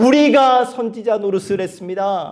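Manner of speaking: strong stress on 우리가, rest said plainly. Acting out people who talk about what they themselves did: emphasis on 우리가. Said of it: "제가 지금 어떻게 강조하고 있습니까? 우리가".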